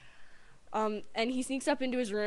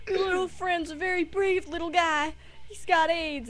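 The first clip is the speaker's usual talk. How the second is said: high-pitched imitation of a fussing teacher; mock-sweet praise in a raised voice; gushing teacher; 8 semitones higher, 3 dB louder than usual. Teachers making a huge deal to classmates, high gushing imitation. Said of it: "and they're like".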